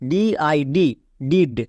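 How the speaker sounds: slow spelling of ডিআইডি, then ডিড; spelling then word. Shown as a demonstration. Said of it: "ডিআইডি এর আলাদা উচ্চারণ করব". (ধীরে বানান, তারপর শব্দ)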